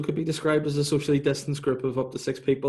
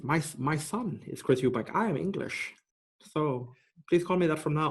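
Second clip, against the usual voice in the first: Chris Eubank impression; 3 semitones higher, 3 dB quieter than usual. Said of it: "yours is identical".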